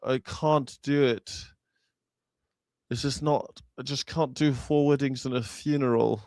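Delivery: soft, mumbled English Hugh Grant voice; mock Hugh Grant, mouth pulled down; Hugh Grant impression. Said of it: "Hugh Grant's mouth always looked like".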